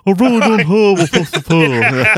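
laughing through a put-on British accent; mock British accent. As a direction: read it like a silly Brit. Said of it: "read it in a British accent".

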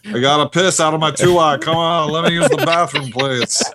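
whiny one-eyed alien voice; character voice. Acted. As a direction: beg in a silly character voice. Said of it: "Tim's got another voice in his arsenal".

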